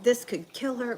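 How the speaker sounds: high-pitched mock alarm; imitated yelling. Doctors warn mom about the danger, mock yelling. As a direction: imitate doctors going off at a parent. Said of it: "they started yelling at my mom".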